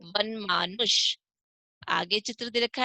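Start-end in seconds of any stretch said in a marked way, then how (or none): 0.0-1.2 "वनमानुष" slowly, opening on va; "वनमानुष" pronounced carefully with a v start; model व word. Shown as a demonstration. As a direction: draw out "वनमानुष" as van-maanush. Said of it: "तो कैसे पढ़ेंगे इसको".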